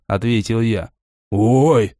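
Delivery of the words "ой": startled gasp. Acted. Three dragon heads gasp at news of Yaga vanishing. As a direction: gasp in shock. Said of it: "охнули три головы разом".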